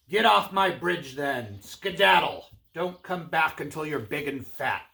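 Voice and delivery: lightly voiced bossy troll; gruff troll dismissal. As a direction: shoo the little goat off as the troll. Troll dismisses little goat.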